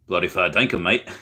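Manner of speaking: a light mock Australian "Bloody fair dinkum, mate"; mock Australian accent. Reading a chat about Aussie slang, mock Australian. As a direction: toss it off in a jokey Australian accent. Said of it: "Fair dinkum equals tell the truth".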